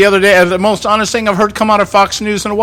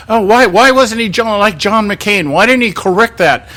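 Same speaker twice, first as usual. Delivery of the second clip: mock outrage; 4 semitones higher than usual. Host mocks media outrage.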